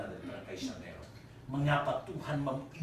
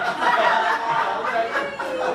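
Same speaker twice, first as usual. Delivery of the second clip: high shrieking laugh; 15 dB louder than usual. Real, not acted. Preacher cracks up at own joke.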